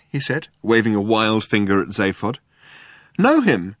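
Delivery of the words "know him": high, surprised exclamation; exclaiming. A narrator's reading. Ford answers Arthur's question, exclaiming. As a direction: throw the question back, pitched up. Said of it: "exclaimed Ford".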